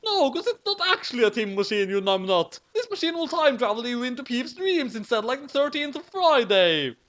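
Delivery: squeaky little sister; high-pitched girl. A narrator's reading. Sister character speaks.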